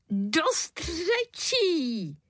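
an exhausted father groaning; wailing father. A narrator's reading. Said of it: "zaúpěl tatínek". (zaúpění, pomalu a vysoko)

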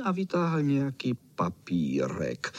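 usual speaking voice

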